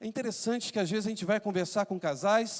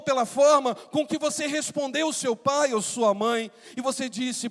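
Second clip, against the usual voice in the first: raised, emphatic pulpit questioning; impassioned preaching; 5 semitones higher, 5 dB louder than usual. Acted. Pastor asking parents and children about their tears, impassioned preaching. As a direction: press the congregation, leaning on key words.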